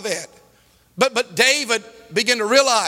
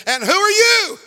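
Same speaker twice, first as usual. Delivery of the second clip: high-pitched mock-indignant demand; angry challenge; 8 semitones higher, 3 dB louder than usual. Second cursing man challenges the chaplain, mock angry. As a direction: imitate a hostile outburst, pitched way up.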